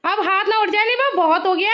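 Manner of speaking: fed-up parent stepping in; stern warning. Real, not acted. Mother warns fighting child to stop.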